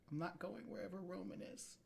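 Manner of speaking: a hint of a timid kid refusing; lightly voiced scared boy.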